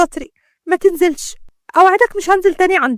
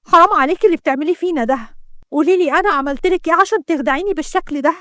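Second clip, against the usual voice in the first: raised, aggrieved voice; hurt reproach; 3 semitones higher than usual. Acted. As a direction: pour out bitter accusations to a sister. Sister reproaches betraying sister in quarrel.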